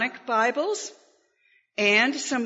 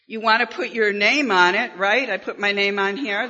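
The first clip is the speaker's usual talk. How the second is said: good teacher voice. Shown as a demonstration. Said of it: "This is my good teacher voice".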